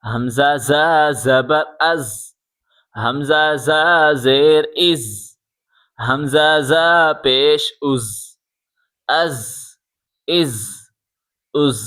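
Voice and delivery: از ended with a firm buzzing z. Shown as a demonstration. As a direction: press the z of از hard. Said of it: "یہ سختی کے ساتھ پڑھا جائے گا".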